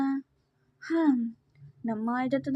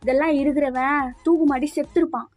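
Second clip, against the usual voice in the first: acted scolding. Girl insults the boy who poses like a hero, scolding. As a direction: tear into him with mounting indignation.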